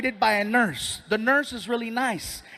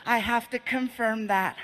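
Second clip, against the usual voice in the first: lightly voiced nice nurse; a hint of the put-on nurse voice. Nurse insisting on weighing the patient, lightly put-on nurse voice. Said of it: "She comes over and she's like".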